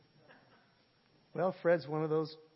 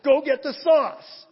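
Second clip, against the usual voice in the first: much higher, louder, laughing mock prophecy; parody prophecy; 11 semitones higher, 14 dB louder, slower than usual. Preacher jokingly announces ribs to congregation, laughing high mock proclamation. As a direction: ham up a joke vision through laughter, slowly.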